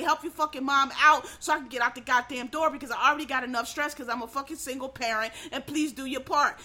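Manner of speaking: a mom at the end of her rope, snapping; exasperated single mom. Retold or imitated. Tired single mom scolding her kid, loud and fed up.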